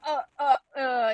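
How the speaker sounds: imitated flustered "uh, uh, uh"; flustered stammer. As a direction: mimic someone stuck for words. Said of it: "he was just like".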